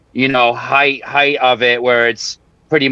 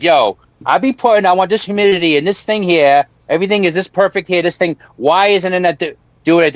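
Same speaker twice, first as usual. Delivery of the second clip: higher-pitched, mildly exasperated venting; frustrated complaint; 6 semitones higher than usual. Retold or imitated. Grower retelling his humidity gripe to AI, frustrated. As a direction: complain with a raised, insistent pitch.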